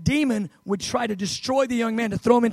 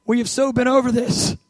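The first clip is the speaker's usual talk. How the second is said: higher-pitched, fed-up pleading; exasperated; 4 semitones higher, 3 dB louder than usual. Acted. Jesus to his disciples who should know this already, exasperated. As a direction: chide them impatiently, pitched up. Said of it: "he is a little bit like".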